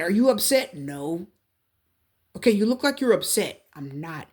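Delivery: terse clipped no; curt, upset reply. Acted. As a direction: answer through bottled anger. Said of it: "you can hear and see".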